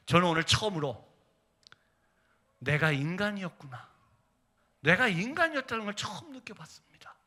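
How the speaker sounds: soft, halting wonder fading to near-whisper; retold confession, tender and increasingly hushed; moved, hushed testimony. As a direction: let the realization sink in quietly. Voices moved patient's answer.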